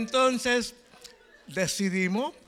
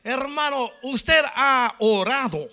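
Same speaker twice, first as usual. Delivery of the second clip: stern question; 4 semitones higher, 5 dB louder, slower than usual. Retold or imitated. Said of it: "me salió un poco fuerte".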